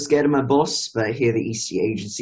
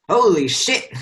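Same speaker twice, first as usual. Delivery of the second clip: shocked exclamation; 7 semitones higher, 4 dB louder than usual. Retold or imitated. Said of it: "Skip to Whitaker saying".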